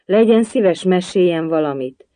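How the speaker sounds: high, loud entreaty; imploring request that eases down at the end; pleading. A narrator's reading. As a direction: beg eagerly, starting high. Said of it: "könyörgött Aliz".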